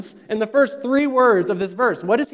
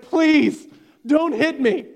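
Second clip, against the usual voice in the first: higher, louder, playfully begging not to be hit; mock pleading; 6 semitones higher, 3 dB louder, much slower than usual. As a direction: act out a frightened plea in a pretend fight. Imagined fight, one guy begs.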